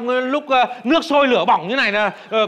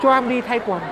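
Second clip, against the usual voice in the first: mock panic; 5 semitones higher than usual. Panicked plea facing firing squad.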